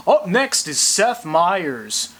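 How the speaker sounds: TV announcer. Retold or imitated. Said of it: "the T V says".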